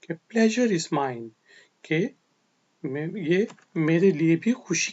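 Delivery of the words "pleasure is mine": slow model phrase. Shown as a demonstration. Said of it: "तो आप आगे से यह कहेंगे".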